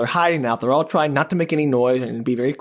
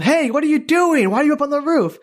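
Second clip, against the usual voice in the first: mock brat yell; 10 semitones higher than usual. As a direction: call up like a pesky brat, hammed-up. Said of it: "yells at them".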